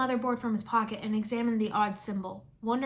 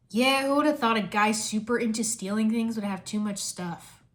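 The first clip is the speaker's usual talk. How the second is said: deadpan. Acted. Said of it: "Kai deadpanned".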